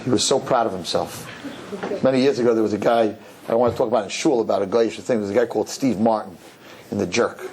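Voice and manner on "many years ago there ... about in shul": ordinary talk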